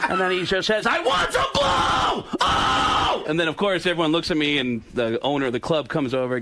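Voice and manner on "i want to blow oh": high, drawn-out screaming impression; Sam Kinison. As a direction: scream it out, ending in a long howl. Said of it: "it sounds like Sam Kinison".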